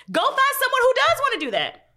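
high-pitched, exasperated dismissal; high, indignant brush-off; exasperated retort. Acted. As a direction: send them off with pitch way up. Acts out retort to resentful men.

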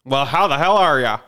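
a lightly voiced hearty dad greeting; generic dad. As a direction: greet like a friendly dad, half in jest. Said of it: "And kinda like that".

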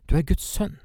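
a high, loud outcry; spirits shrieking. Acted. The evil spirits cry out as they leave people, a shrieking outcry. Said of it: "mens de skrek og ropte".

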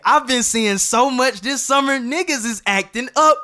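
worked up. Real, not acted. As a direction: rant it amped up. Worked up about summer.

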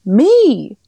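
bursting to claim it; excited shout. Real, not acted. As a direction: jump in proudly and loud. Cohost asks who was there.

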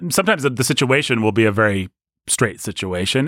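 ordinary talk, nothing marked

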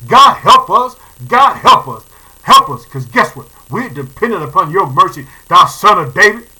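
loud pleading prayer. Retold or imitated. Preacher leading the congregation's cry for mercy, loud pleading. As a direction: cry out for mercy, pressing hard. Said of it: "This is what we're gonna be saying".

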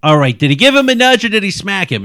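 loud, fast accusing interrogation; yelling officer. Acted. Officer yelling at the student for changing her story. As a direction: push hard, raise the voice. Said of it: "I don't know why you're yelling at me".

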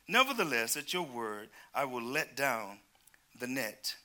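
measured, slightly slow Bible reading; scripture reading. Acted. Preacher reading scripture to the church, measured. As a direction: read the passage out to the congregation.

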